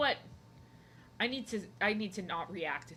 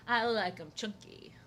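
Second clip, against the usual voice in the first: slow breathy whisper; a sly whispered confession. Real, not acted. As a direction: lean in and whisper it. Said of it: "whispered aside".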